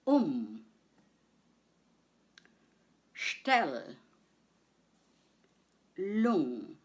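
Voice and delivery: "um", "Stell", "Lung" as separate syllables with long gaps. Shown as a demonstration. Teacher has learners repeat after her, syllable by syllable. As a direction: isolate "um", "Stell", "Lung", leaving room to repeat. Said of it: "I'll say the word syllable by syllable".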